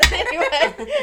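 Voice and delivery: laughing through the word, slowed down. Real, not acted. Woman laughing at her own slip, laughing slowly. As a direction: still giggling, dragging it out.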